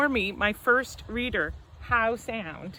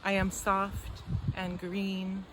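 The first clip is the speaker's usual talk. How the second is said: slow, spaced poetry recital; poetry reading; slower than usual. Acted. Poet reads on forest and death to an audience, slow poetry reading. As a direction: read it as verse, long pauses between phrases. Reads own poem aloud.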